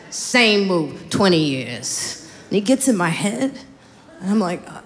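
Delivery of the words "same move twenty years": deadpan tease. Retold or imitated. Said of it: "He's like".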